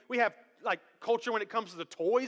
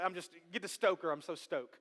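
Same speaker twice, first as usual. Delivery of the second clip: softer, lower laid-back dude voice; lazy eighties dude talk; mock surfer dude; 6 semitones lower, 9 dB quieter than usual. Preacher mimicking an eighties dude, soft and low. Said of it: "you hit me with a".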